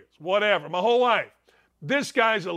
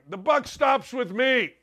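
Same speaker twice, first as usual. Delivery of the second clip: mock Joe Biden; 4 semitones higher than usual. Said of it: "if you don't like my accents".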